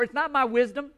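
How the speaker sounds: normal talking voice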